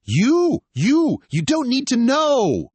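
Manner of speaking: high, loud, stammering yell; flustered shout. Acted. Caught friend shouting before running off, flustered. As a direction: blurt it out in a panic.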